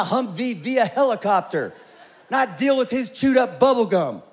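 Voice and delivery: put-on young PA dreaming of power and cookies; dreaming big. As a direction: wish it out loud, laughing. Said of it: "I'm thinking".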